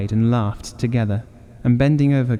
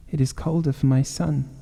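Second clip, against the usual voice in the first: weeping; 4 semitones higher than usual. Acted. Grieving mother answers husband through tears. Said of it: "and wept afresh".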